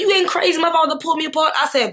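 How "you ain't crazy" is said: much higher, heated yell-like retort; retold furious retort. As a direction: snap back in rage. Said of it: "So I was like".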